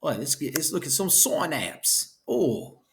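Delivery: hammed-up English accent; bad English accent. Shown as a demonstration. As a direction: put on a clumsy mock English accent. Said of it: "that's my best English accent".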